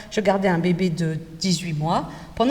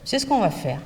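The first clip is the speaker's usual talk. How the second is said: calm reassuring teacher; 4 semitones lower than usual. Shown as a demonstration. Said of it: "Je dis".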